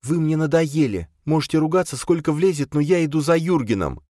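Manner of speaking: put-on high, steady resolute girl; calm, unshakable decision; Charna, firm. Charna fed up with the quarrel, firm and high.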